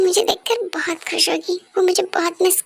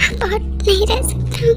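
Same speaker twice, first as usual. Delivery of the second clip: slow, crying through the words; tearful plea; slower than usual. Acted. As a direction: beg as if about to break. Husband begging, voice breaks. (रोते हुए धीमी विनती)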